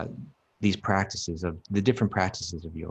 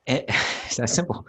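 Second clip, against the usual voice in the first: laughing echo; 4 semitones higher than usual. Real, not acted. Echoing partner's line with a laugh.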